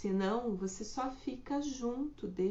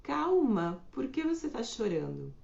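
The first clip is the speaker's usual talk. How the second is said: impatient demand; 2 semitones higher than usual. Retold or imitated. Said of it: "mas tá escrito assim".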